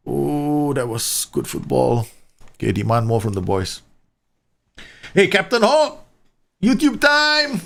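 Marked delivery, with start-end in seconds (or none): 5.1-7.6 excited greeting. Real, not acted.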